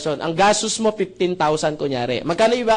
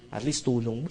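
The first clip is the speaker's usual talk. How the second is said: soft consoling; 8 semitones lower, 10 dB quieter than usual. Retold or imitated. Consoling the widow.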